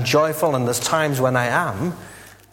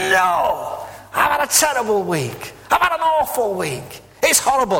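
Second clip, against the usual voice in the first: high-pitched wailing complaint, much higher; hammed-up high wail of misery; mock scream; 9 semitones higher than usual. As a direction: wail it like a stranger spilling a terrible week. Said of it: "somebody screams at you".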